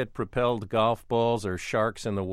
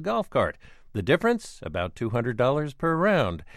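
punchy, emphatic scripted news read; crisp presenter delivery with lively stressed key words; radio news intro; 3 dB louder than usual. Acted. Host reads scripted radio introduction.

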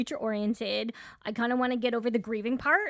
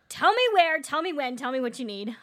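bursting with eagerness, starting loud and high then settling; eager; 3 semitones higher, 6 dB louder than usual. Retold or imitated. Wife retelling her eagerness to join the neighbor party, eager. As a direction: gush like you can't wait to be invited. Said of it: "I'm like".

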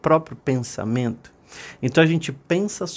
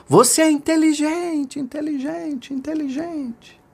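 acted mountain echo, high and fading; 12 semitones higher than usual. A narrator's reading. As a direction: echo back, each repeat dying away. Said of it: "a montanha devolveu".

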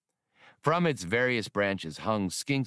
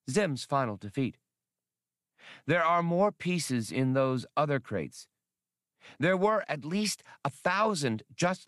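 dreamy little creature confiding a wish; alien Skinks voice; 4 semitones higher than usual. Acted. Skinks the alien confiding his wish to Han, lightly raised voice. Skinks lectures on Zim's robots.

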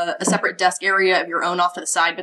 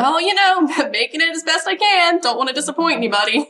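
Riley role; 9 semitones higher, 4 dB louder than usual. Acted. GM voices Riley.

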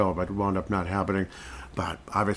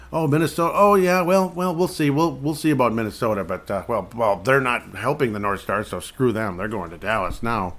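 dismissive league voice. Retold or imitated. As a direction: play the league brushing a whole state aside. NHL voiced brushing off Minnesota.

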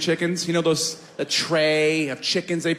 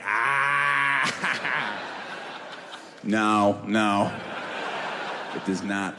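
sheepish laughing no; 5 semitones lower, 4 dB quieter, much slower than usual. Retold or imitated. Sheepish admission.

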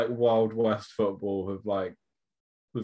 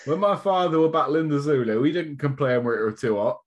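put-on old-school manager rant; 5 semitones higher, 3 dB louder than usual. Mock old-time manager halftime speech.

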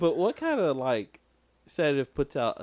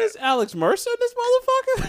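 pitched way up, mock amazement; excited disbelief; 6 dB louder than usual. Viewer recognizing Alex Mercer, high and amazed. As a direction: blurt it out in delight. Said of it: "I was like".

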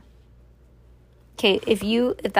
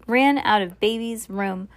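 usual speaking voice

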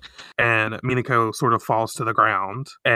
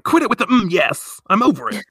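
exasperated Artemis; 8 semitones higher, 4 dB louder than usual. Retold or imitated. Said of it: "Artemis is like".

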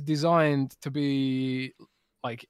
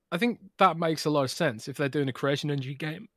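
choking on a drink. Real, not acted. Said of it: "I'm choking here".

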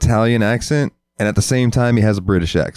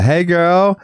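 high, drawn-out sassy greeting in a put-on Puerto Rican accent; exaggerated Puerto Rican-ish Valley Girl accent; Puerto Rican-style accent; 13 semitones higher, 3 dB louder, much slower than usual. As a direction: squeal it slow with a hammy Puerto Rican accent. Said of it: "that's Puerto Rican, not Valley Girl".

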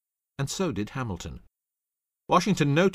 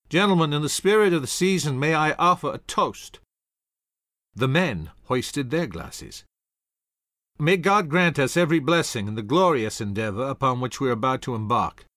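higher, louder ceremonial toast; rousing toast; 4 semitones higher, 4 dB louder than usual. Acted. Washington toasting his officers, loud and ceremonial. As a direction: raise the glass and lift the room.

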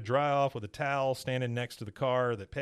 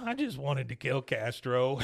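pouting. Retold or imitated. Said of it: "he's just pouting".

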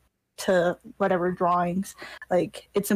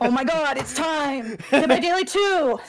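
excited; 5 semitones higher than usual. Real, not acted. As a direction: burst out with glee. Excited about game sequel.

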